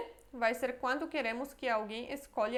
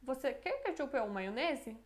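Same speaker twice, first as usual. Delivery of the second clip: "ketchup ou maionese" run together without a break, falling at the end; no pause before "ou maionese", any answer welcome; open-offer intonation; 3 dB quieter than usual. Shown as a demonstration. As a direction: offer "ketchup ou maionese" as one loose group. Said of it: "Tá vendo a diferença na entonação?".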